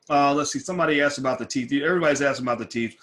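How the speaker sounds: talking around dental appliance; speech muffled by mouth device; mouth full. Real, not acted. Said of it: "I'm talking funny because".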